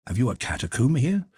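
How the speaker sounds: amazed at the hidden room; astonished. A narrator's reading. Young man discovering the refuge, astonished. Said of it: "The young man was genuinely astonished".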